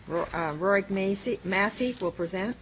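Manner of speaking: talking around something in mouth; slightly garbled, mouth full. Real, not acted. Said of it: "I have a puffed up in my mouth".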